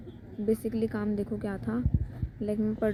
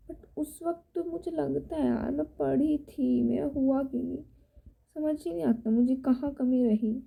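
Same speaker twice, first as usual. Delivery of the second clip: upset. Real, not acted. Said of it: "पूरा mood खराब हो गया".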